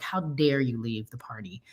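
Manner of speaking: retold hurt whisper. Friend's upset reply retold.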